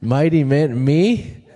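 high-pitched, disbelieving questions rising at the end; "who, me?" disbelief, voice shooting up; incredulous Gideon. Acted. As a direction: act out a baffled man who can't believe it's him. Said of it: "Gideon's like".

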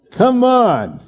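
high, laughing "come on". Real, not acted. Pastor laughing at his own story, high and amused. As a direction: crack up at your own joke.

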